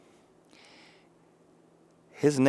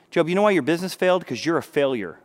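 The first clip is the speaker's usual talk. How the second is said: accusing friend; 5 semitones higher, 3 dB louder than usual. Retold or imitated. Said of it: "His friends begin to say".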